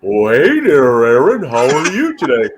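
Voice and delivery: slow, lazy friendly hippo greeting; hippopotamus voice. Pretend. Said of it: "I would picture the hippopotamus voice being".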